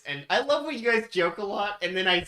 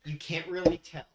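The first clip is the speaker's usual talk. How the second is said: slow, dramatic scene-setting, key words drawn out; game master narration; 3 dB louder, slower than usual. Acted. Game master reveals a creature crawling from scrap, dramatic narration. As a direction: stretch the vivid words for suspense.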